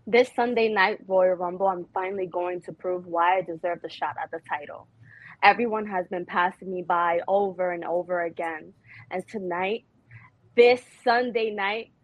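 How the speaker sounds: hyping up a title shot; wrestling promo. Pretend. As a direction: cut a wrestler's promo with swagger. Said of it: "she's gonna do a wrestling promo".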